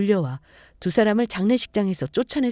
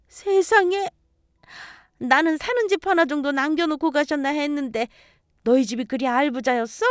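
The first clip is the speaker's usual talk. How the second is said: put-on gasping older woman, pitch jumping up; scandalized, wide-swinging surprise; astonished mother-in-law. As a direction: marvel greedily at unexpected wealth. Mother astonished at hidden wealth.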